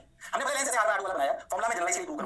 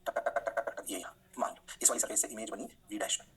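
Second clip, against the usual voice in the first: whispered drawing; 8 semitones lower, 5 dB quieter than usual. Acted.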